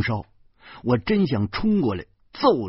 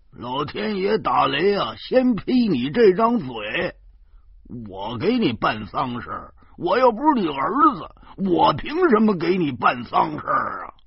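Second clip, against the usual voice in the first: mock indignant retort; 7 semitones higher, 4 dB louder than usual. Zhou Pangzi snaps back mockingly.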